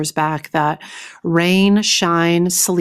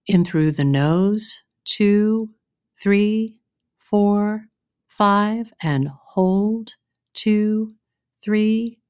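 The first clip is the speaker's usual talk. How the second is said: guided breathing count; 3 semitones higher, much slower than usual. Acted. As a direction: count them through each breath, calm and steady.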